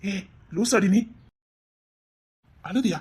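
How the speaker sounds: slow, laughing affectionate jibe; fond laughing tease. Acted. Boyfriend teases girlfriend fondly, laughing slowly. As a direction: tease her lovingly while laughing. Teasing tender reply.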